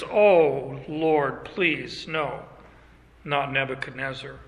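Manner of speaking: hushed plea. Acted. Daniel pleading for the king.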